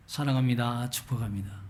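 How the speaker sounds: soft, warm greeting, fading out; gentle greeting. Shown as a demonstration. Preacher showing the congregation the warm greeting. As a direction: offer it gently and kindly. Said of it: "그걸 가르치기 시작했어요".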